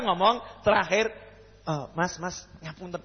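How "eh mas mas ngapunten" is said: overly polite leave-taking. Retold or imitated. Polite exit from the critic.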